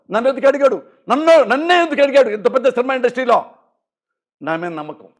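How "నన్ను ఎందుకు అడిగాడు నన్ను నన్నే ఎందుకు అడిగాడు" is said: higher, louder rising insistence; higher, louder insistence on నన్నే; heated demand. Real, not acted. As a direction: hammer the question home.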